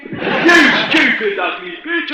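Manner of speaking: angry shout. Acted. Guest yells at woman who asked about his wig. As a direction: spit the words out slowly.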